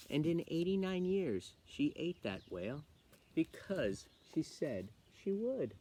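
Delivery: lively, measured storytelling of a rhyme; poem reading. Acted. Teacher reading a funny poem aloud to children, playful storytelling. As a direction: read a fun poem with swinging rises and falls.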